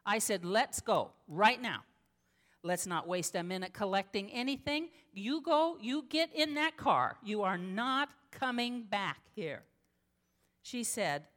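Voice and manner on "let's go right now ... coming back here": urgent command. Retold or imitated. Pastor urges the abused woman to flee now, loud. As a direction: push her out the door with your voice. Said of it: "I yelled at her".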